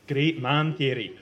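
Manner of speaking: slow smug jab. Acted. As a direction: needle them smugly. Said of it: "Bell says smugly".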